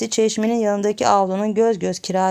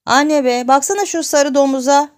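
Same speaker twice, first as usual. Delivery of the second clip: tearful complaint; 7 semitones higher, 6 dB louder than usual. Acted. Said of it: "Ağlayarak annesinin yanına geldi".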